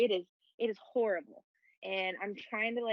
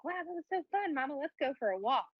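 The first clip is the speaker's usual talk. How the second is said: higher, lightly voiced little boy; imitating her four-year-old; 6 semitones higher, faster than usual. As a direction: chirp it like an eager small kid. Mom voicing her son's request.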